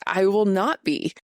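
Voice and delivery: a touch of gladness, deliberately paced; happy realization. Retold or imitated. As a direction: retell a pleased realization, stretching it out. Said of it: "then I got happy".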